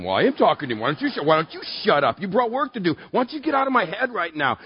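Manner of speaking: mock-exasperated self-argument; irritated arguing back. Pastor to the nagging voice in his head, mock exasperation. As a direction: argue testily with the voice in your head.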